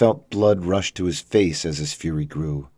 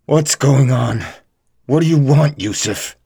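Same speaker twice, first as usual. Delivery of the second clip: louder, higher, alarmed demand; panicked cry at his captor; alarmed hostage; 8 semitones higher, 6 dB louder than usual. Acted. Tied-up hostage confronts captor.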